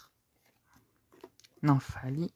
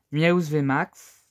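loud announcement; 7 dB louder, much slower than usual. Real, not acted. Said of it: "Excusez-moi si je parle fort".

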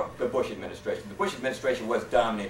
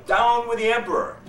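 higher, louder mock yell; retold yell; 11 semitones higher, 6 dB louder than usual. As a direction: call it out toward the cave. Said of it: "go to the mouth of the cave and yell".

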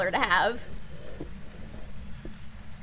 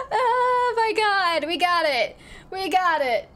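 high, drawn-out thrilled exclaim; excited disbelief; 6 semitones higher, slower than usual. Real, not acted. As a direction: stretch out the amazement. Celebrating the win.

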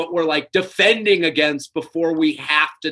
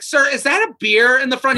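timid wuss; 5 semitones higher than usual. Retold or imitated. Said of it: "I couldn't have been more of a wuss".

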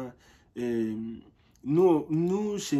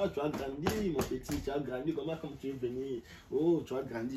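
softer, tender fatherly fussing; doting father, softly; 5 dB quieter than usual. Retold or imitated. Friend's father marvelling at his growth, soft and fond. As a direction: murmur like a dad amazed how the boy has grown. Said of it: "Leur papa me touche au corps comme ça".

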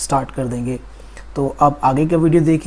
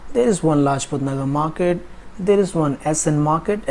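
flowing list; much slower than usual. Shown as a demonstration. Teacher showing students how to say it together, in a flow. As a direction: run the sentences together as one connected list. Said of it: "flow से बोलना हो".

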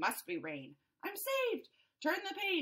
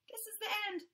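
faint whisper; dying whisper; 5 semitones higher, much faster than usual. Acted. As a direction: whisper it like last words. Fish near death.

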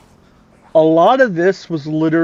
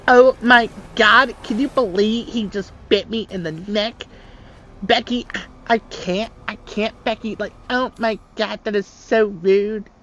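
put-on Valley Girl voice. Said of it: "Lou does a Valley Girl voice way better than me".

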